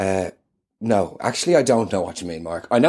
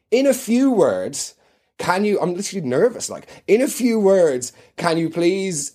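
nervous fanboy host; 6 semitones higher than usual. Acted. Nervous host fawning over guest.

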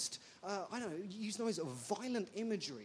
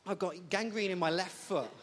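laughing; 7 dB louder than usual. Real, not acted. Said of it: "it's amusing already".

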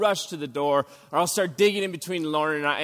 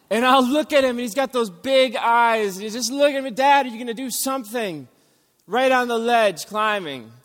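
1 scared dream retelling; 6 semitones higher, 4 dB louder than usual. Retold or imitated. Nightmare of son on ledge.

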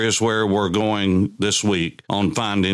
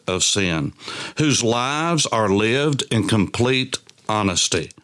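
scripture reading. Acted. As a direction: read the psalm aloud, drawing out the line endings. Reads psalm aloud.

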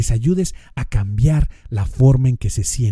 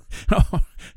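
breathy laugh; 6 semitones higher than usual. Real, not acted. Laugh after the sarcastic line.

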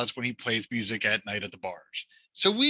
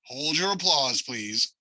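softer, fading plea for quiet; milking the applause; 5 dB quieter than usual. Pretend. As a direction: hush them down gently, dropping away.

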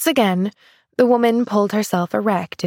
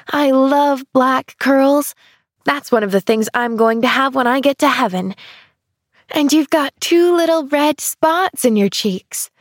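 put-on higher, bright-eyed young girl; little girl voice; 5 semitones higher than usual. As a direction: play an eager little girl. Child's voice, eager.

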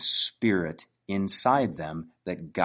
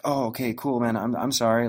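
higher-pitched, placating mock apology; backpedaling apology; 5 semitones higher than usual. Affiliate imagined giving in to an offended prospect, apologetic backpedaling. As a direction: back down quickly, imitating someone eager to appease. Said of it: "pedaling back and caring".

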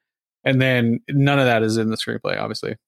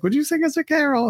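mock caroler. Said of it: "knocking on the doors and like".

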